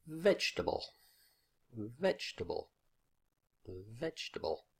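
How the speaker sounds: vegetable stressed on VEG; first-syllable stress. Shown as a demonstration. Teacher showing the marked stress, vegetable with a strong first syllable. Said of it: "stress marked on the first syllable".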